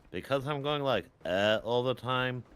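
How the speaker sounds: hammed-up teen cartoon laugh; Butthead voice. Shown as a demonstration. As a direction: start with the Butthead laugh and drone. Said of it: "whenever I do Butthead".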